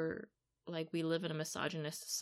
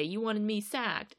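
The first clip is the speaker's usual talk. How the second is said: angry retort; 6 semitones higher than usual. Retold or imitated. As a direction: spit it back as an accusation. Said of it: "Phil Neville just spits back".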